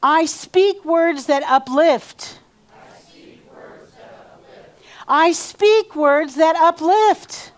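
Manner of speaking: seated affirmation. Shown as a demonstration. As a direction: lead the line for the room to echo. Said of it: "So say this after me".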